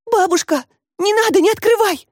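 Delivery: begging grandma not to open the door; frightened cry. Acted. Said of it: "испуганно крикнула Катька". (испуганный крик, намного выше)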